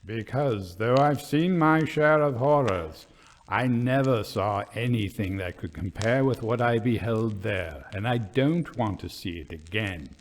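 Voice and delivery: low, grave voice; haunted by the memory; a lightly voiced, grave old soldier; slow and grave. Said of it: "he said slowly and gravely".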